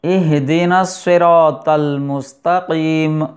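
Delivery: اہدنا slow with a breathy ہ; slow recitation demo. Shown as a demonstration. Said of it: "ہا کا مخرج". (ہ کی واضح ادائیگی)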